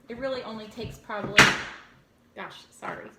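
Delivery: loud burst, then a sudden hush; loud then suddenly hushed. Real, not acted. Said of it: "I'm being loud".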